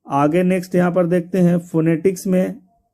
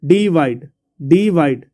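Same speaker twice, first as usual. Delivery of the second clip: "डिवाइड" said on its own with deliberate emphasis and a falling end; word stress demo; slower than usual. Shown as a demonstration. Teacher asking where stress falls, "डिवाइड" sounded out emphatically. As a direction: sound out "डिवाइड" so the stressed part can be heard. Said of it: "कहाँ पर जोड़ पड़ रहा है".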